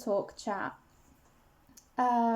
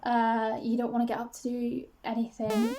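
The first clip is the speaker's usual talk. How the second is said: a touch of a low, nagging inner voice; 2 semitones lower than usual. Retold or imitated. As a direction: mimic a dull inner devil telling you to stay in bed. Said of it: "this guy's saying".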